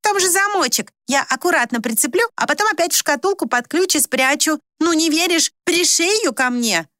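a petulant daughter protesting; stamping girl. A narrator's reading. Maya protests to her mother, stamping her foot indignantly. Maya pleading, much higher.

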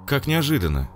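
high surprised mother's voice. Acted. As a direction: gasp it out, startled. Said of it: "Голос матери".

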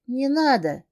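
high, loud cry of don't; frightened plea. Acted. Heroine begs the captor not to touch her, frightened. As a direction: beg him off in panic.

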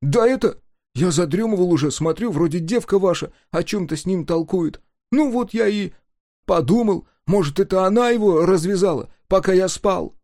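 high, loud nervous babbling; flustered excuses. Acted. Guard excusing himself to the chief, high and flustered. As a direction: wriggle out of blame, hurried.

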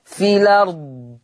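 slow, في الأرض as fi-lard; drawn-out في الأرض with the hamza dropped; naql demo. Shown as a demonstration. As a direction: say في الأرض joined, lam open, no hamza. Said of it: "شلت الهمزة وعملت نقل".

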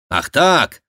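loud, high indignant cry; indignant exclamation. Acted. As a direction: bristle at the king. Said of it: "воскликнул Шико". (возмущённое восклицание)

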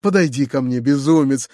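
ordinary delivery

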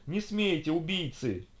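high-pitched outraged cry. A narrator's reading. Girl to the robot's killers, crying out. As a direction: protest with a lifted pitch. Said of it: "раздался чей-то окрик".

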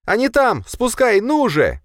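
high, loud urgent shout; shouting girl. Acted. The woman shouts to let the dog loose, high and loud. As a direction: yell at him to release the dog. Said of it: "закричала девушка".

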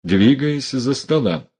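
ordinary delivery, nothing marked

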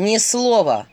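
threatening shout. Acted. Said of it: "страшным голосом закричал Филин".

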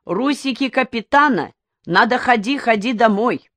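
a lightly voiced Japanese admiral giving orders; mock Japanese admiral. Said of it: "японский главный адмирал и говорит".

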